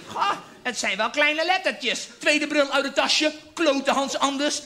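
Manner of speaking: slow grandma voice, mildly acted; old grandma voice. Oma struggling to read the poem, slow elderly voice. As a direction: drag it out like a squinting old lady.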